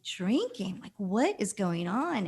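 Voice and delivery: retold disbelief, questioning each word; incredulous. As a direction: replay a baffled reaction. Retells her shocked reaction to friend.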